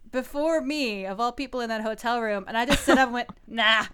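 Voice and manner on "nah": laughing dismissal. Retold or imitated.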